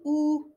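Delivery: "O" held level as a mistaken "ou"; wrong E, as ou. Shown as a demonstration. Teacher warning learners off a wrong E, level "O" like ou. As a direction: hold "O" evenly as "ou", the error. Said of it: "ماشي".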